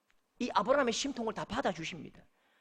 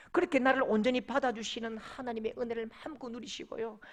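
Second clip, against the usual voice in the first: ordinary talk, nothing marked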